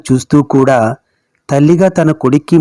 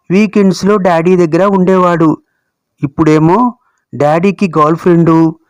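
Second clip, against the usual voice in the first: lightly voiced child, slightly raised pitch; troubled little grandson; 3 semitones higher than usual. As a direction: recount a friend's troubles as a small boy. (బాధగా చెబుతున్న చిన్న మనవడి గొంతు)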